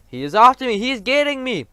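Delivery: high, loud panicked cry; terrified scream. A narrator's reading. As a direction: shriek as if chased. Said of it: "screamed the flesh lump eater".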